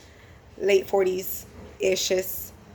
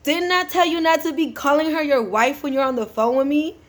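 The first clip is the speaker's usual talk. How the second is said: mild mock anger; 6 semitones higher, faster than usual. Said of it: "homegirl got mad".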